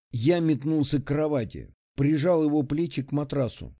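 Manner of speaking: plain reading voice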